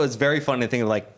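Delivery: normal talking voice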